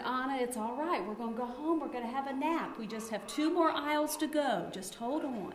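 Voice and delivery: put-on softly soothing a crying toddler; calm soothing mom. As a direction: hush it gently, like a patient mother.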